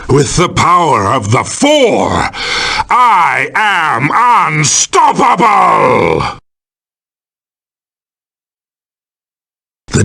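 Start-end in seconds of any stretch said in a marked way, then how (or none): 2.9-6.4 high, drawn-out villain gloating; triumphant boast. Acted. Villain powered by the Four, triumphant boast. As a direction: exult slowly, pitch leaping high then falling.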